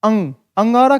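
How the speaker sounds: अंग with a full ng consonant; short vowel closing firmly into ng; anusvara demo. Shown as a demonstration. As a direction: sound the ng in अंग, अंगारा. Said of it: "अंग, आ और ना की".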